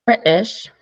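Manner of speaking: put-on tentative go at a British accent; attempted British accent. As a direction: try the answer in British. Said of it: "I don't even know if that's a British accent".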